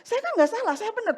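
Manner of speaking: high, loud indignant protest; mock indignant high voice; protesting innocence. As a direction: whine it like someone who won't accept blame. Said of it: "kadang kita suka menolak kan".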